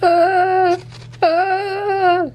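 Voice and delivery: high strangled uh; stammer, lost for words; speechless sputter. Real, not acted. Speechless from the book.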